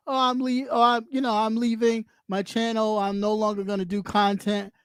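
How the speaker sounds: understated mock announcement of leaving; imagined channel quitter. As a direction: quote someone resigning, a touch low. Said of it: "As if somebody says".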